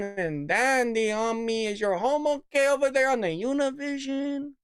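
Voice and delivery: mocking Hispanic-accent impression. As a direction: mimic her with a hammed-up Hispanic accent. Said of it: "starts getting a little Hispanic".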